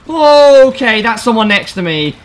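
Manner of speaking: loud high alarmed okay; startled shout. Real, not acted. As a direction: jump at a presence beside you.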